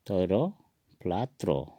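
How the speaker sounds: "तोयरो पुलात्रो" with a pause between words; Assamese pronunciation. Shown as a demonstration. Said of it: "असमिया में इसको".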